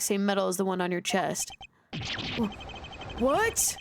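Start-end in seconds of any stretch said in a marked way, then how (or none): 2.4-3.8 shocked what. Acted. Character reacts shocked.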